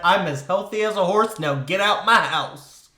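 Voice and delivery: a hint of a cranky old coot; lightly grumbly old prospector. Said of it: "my old coot voice that I've assigned to Andrew Borden".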